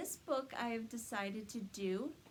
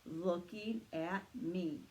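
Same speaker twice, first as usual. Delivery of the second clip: slow, lightly voiced Santa; a hint of Santa, drawn out slowly; slow gentle Santa line; much slower than usual. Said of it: "Very good, Santa".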